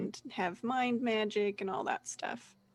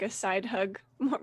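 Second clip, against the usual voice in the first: ordinary talk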